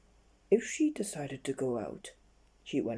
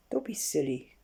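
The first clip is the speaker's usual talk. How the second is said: dismissive cry. Acted. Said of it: "cried little Miss Stubborn".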